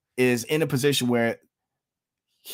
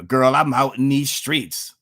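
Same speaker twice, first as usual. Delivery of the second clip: mock street slang; slower than usual. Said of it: "trying to talk all jive".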